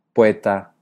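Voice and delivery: POETA in two syllables, O gliding into E; diphthong. Shown as a demonstration. Teacher offers the second option, poeta as diphthong. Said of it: "hacer diptongos manteniendo la calidad".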